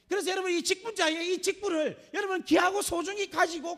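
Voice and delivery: loud, high, full-force sermon delivery; fiery preaching. Real, not acted. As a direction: preach it out with fire and conviction.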